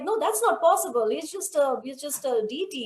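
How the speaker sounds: mock astonished denial from the father; father's disbelief. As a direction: refuse to believe it, loudly. Father denies Krishna ate.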